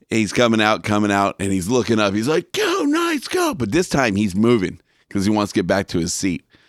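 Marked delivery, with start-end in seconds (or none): 2.5-3.5 mock shrill, very high, loud stadium cheer. Retelling how an obnoxious hockey fan cheered: imitating a fan yelling. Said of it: "he hears the yelling".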